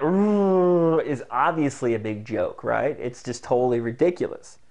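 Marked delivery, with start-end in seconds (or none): 0.0-1.0 long silly "ooh"; drawn-out goofy ooh, as if spazzing out; loud, held, mock-freakout ooh. Shown as a demonstration. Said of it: "spazzing out".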